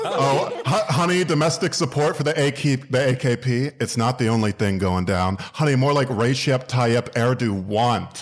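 Acted. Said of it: "it's called Foreign Policy Trixie Mattel".

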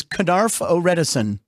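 "Knarf O'Redison" read out as Frank Nicotero reversed; "Knarf O'Redison" spoken like a real name, clear syllables; backwards speech. Shown as a demonstration. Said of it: "my name backwards is".

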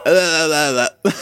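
flustered, stuck mid sip; stammering in a panic; panicked stammer. Retold or imitated. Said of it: "I was just like".

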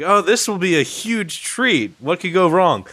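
mock optimism before the letdown; naive anticipation. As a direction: play up cheerful, clueless expectation. Recalls his naive anticipation.

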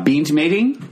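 a put-on New Zealand accent, slow. Shown as a demonstration. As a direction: drawl it like a Kiwi. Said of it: "sound like".

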